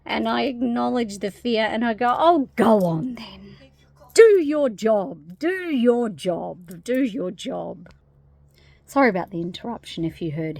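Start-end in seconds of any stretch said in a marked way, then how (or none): 2.2-7.9 slow, drawn-out mock encouragement; lightly hammed-up giving in; indulgent consent. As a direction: humour it, stretching each phrase and easing off. Giggles, then humours the fear.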